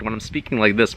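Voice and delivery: lightly demonstrated tense voice; throat voice. Shown as a demonstration. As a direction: speak from the throat with a tight chest. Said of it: "my chest kinda feels tight and uncomfortable".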